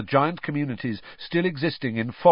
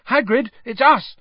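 high, louder shout through the door; Harry shouting through Hagrid's door; 7 dB louder than usual. A narrator's reading. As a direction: call out over the barking. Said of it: "Harry shouted".

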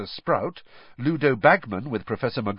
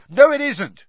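loud, much higher shout; 10 dB louder than usual. A narrator's reading. Ron shouting back at Hermione, loud shout. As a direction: shout him down. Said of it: "shouted Ron".

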